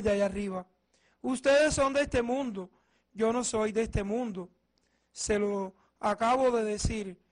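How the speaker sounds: solemn, formal scripture reading; Gospel proclamation. Acted. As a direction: proclaim it to the congregation. (proclamación solemne del Evangelio)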